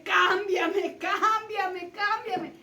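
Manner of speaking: cling and beg out loud; loud pleading. Retold or imitated. Jacob holding the angel and begging out loud.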